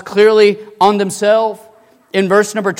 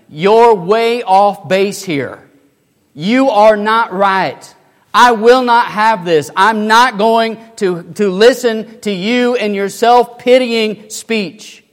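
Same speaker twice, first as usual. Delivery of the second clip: firm fatherly correction; 4 semitones higher, 5 dB louder, slower than usual. Acted. The father corrects his son.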